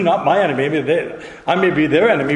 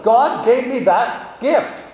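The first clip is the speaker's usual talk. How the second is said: normal talking voice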